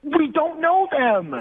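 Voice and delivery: high, slow cartoon-starfish voice; goofy, high put-on voice; Patrick. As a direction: draw it out as a dopey cartoon character. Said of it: "did a Patrick from SpongeBob impersonation".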